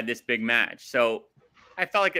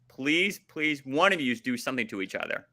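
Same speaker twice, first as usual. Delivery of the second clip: impassioned pleading. Real, not acted. Fan begging the wrestlers for action, impassioned pleading.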